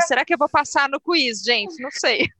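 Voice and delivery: after laughing hard. Real, not acted. Nervous before the quiz.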